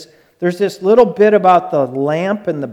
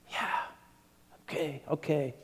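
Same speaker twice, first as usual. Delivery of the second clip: much softer, surrendering words to God; hushed prayer; 2 semitones lower, 11 dB quieter than usual. Retold or imitated. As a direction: pray it barely above a whisper.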